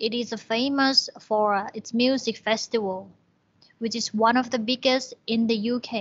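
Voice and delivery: very slow, careful reading of the English text; slow reading aloud. Shown as a demonstration. Teacher reads the textbook passage to students, slow and clear. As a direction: read each phrase slowly for learners. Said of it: "reads the exercise text".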